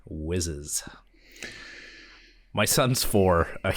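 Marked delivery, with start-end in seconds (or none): 0.1-0.8 whisper. Acted. Potty talk said under breath.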